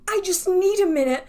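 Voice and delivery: breathy whispered retold plea; hushed, shaky-sounding whisper of needing a moment. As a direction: whisper it as if you're about to break. Retold panicked exit line.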